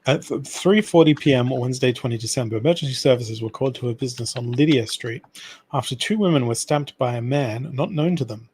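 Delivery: steady newsreader delivery of a crime report; news read. Acted. Reading a news article aloud to his friend, newsreader style. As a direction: read it out like a radio bulletin.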